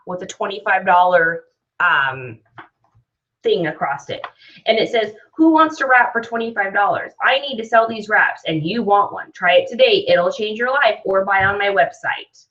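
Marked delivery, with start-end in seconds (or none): 5.4-12.5 lightly voiced sales pitch; a hint of a pushy salesperson; salesy pitch. Shown as a demonstration. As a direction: read it out like you're trying to sell something. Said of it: "sound like I'm trying to sell them something".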